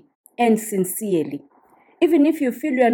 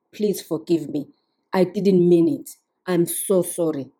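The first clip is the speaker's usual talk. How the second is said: sincere apology; 3 semitones lower than usual. Shown as a demonstration. Spouse coming back later to apologize, heartfelt and humble. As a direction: humbly ask your spouse to forgive you. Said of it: "come back and say".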